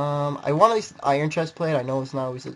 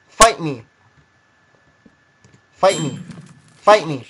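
taunting shout; 10 dB louder, slower than usual. Real, not acted. Taunting enemy.

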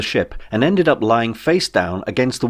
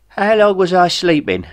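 Jeff voice; 10 semitones higher, 4 dB louder than usual. Acted.

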